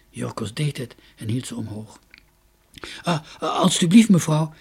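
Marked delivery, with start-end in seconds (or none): 3.0-4.5 hoarse call. A narrator's reading. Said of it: "riep hij schor".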